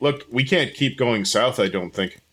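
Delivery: ordinary delivery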